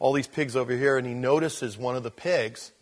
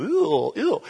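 mock disgust; 8 semitones higher, 6 dB louder than usual. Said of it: "you go".

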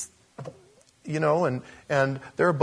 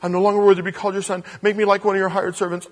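rehearsing son; 2 semitones higher, 6 dB louder, faster than usual. Acted. Son rehearsing his speech.

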